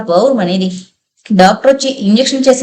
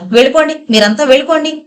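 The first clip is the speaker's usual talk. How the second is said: ordering out; 5 semitones higher, faster than usual. Acted. Swapna orders everyone out.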